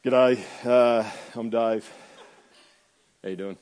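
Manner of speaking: Aussie bloke in a low voice. Shown as a demonstration. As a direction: drop into a laid-back g'day bloke. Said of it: "Pete with a jacket on and a low voice".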